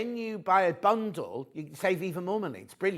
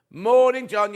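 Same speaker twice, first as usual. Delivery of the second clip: chirpy greeting; 5 semitones higher, 9 dB louder, slower than usual. Real, not acted. Greeting colleague brightly.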